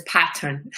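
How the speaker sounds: "pattern" drawn out with a clear T; amused copy of a carefully enunciated "pattern"; imitating Rose's enunciation. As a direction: sound both syllables of "pattern", T and all. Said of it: "Rose enunciates pattern".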